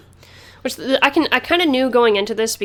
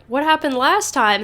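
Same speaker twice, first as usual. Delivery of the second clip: a hint of a clueless Ruby, slightly higher; 5 semitones higher than usual. Host voicing Ruby who forgot what happened. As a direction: ask it like you truly have no idea. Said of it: "our Ruby's like".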